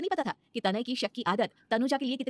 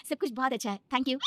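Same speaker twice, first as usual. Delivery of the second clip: smiling; 4 semitones higher than usual. Acted. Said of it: "Tanuja मुस्कुराकर कहती है".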